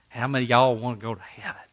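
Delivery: preacher's easy Georgia accent, light imitation; thick Georgia accent. Preacher asking Sunday school kids, in a thick Georgia accent. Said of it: "with that thick Georgia accent".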